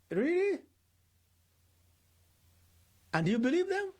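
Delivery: high and loud, disbelieving; incredulous. Real, not acted. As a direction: challenge them with mock astonishment. Teacher mocking gullible listener.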